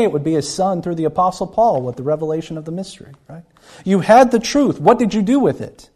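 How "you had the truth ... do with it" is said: forceful challenge. Acted. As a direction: press them hard for an answer. Preacher confronting the congregation.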